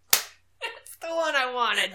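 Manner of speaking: slow words through laughter; laughing. Real, not acted. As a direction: say it while still laughing. Laughing after joke.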